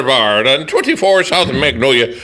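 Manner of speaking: light mock Irish lilt; switched Irish accent. Host reading out pub prizes, mock Irish accent. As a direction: read the prize with a touch of Irish. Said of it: "I gotta switch accents now".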